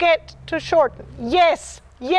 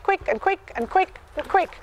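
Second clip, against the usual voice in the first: quickening rhythm; 5 dB quieter than usual. Shown as a demonstration. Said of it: "What gets quicker is the shoulders".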